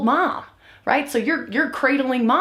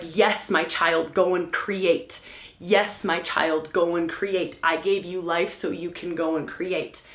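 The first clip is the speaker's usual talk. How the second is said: nurturing earth mother; 3 semitones lower, 4 dB quieter than usual. Retold or imitated. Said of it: "She's like".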